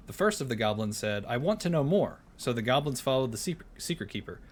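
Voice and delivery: storybook reading voice; story narration. Acted. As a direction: read it like a bedtime tale.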